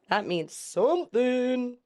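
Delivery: slow, lifted "something"; drawn-out hint. Shown as a demonstration. Reactor noting a symbol to remember, drawn-out hint. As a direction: stretch SOMETHING out slowly.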